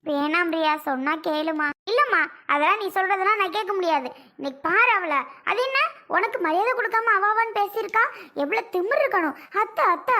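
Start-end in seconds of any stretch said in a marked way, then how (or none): 1.9-9.4 indignant outburst. Acted. Daughter furious at sister-in-law. 9.6-10.2 mocking imitation. Mocking sister-in-law's sweet calls.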